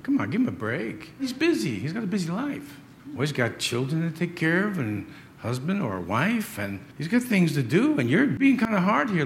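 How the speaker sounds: a hint of a whiny pleading objector; lightly voiced complainer arguing with the Lord; mock objector. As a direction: plead the excuse, half-joking. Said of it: "He says".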